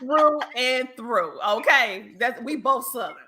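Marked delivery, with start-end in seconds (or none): 0.0-1.4 laughing. Real, not acted. Laughing Southern banter.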